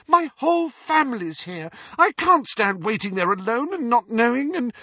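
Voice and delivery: high, loud pleading protest; angry, tearful shouting. A narrator's reading. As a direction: protest hotly, close to tears. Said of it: "angry tears sparkling in her eyes".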